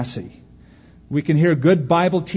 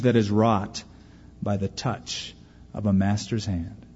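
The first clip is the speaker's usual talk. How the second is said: poem recitation. Acted. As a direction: let the poem's lesson land gently.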